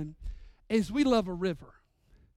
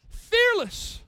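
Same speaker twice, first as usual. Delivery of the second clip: loud exclamation; 13 semitones higher, 7 dB louder than usual. Acted. Exclaims about fearless son.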